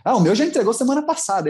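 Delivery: mock-casual brag that her son already handed it in; snobbish mom. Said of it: "Pra, pra esnobar, fala assim".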